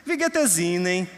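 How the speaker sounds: put-on German greeting in a Northeastern Brazilian accent, "es" with a plain s; "Wie geht es Ihnen?" with a light Nordeste lilt, s as in "ez". Newcomer from the Northeast greeting the speaker, mild Northeastern Brazilian accent. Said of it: "esse vem do Nordeste".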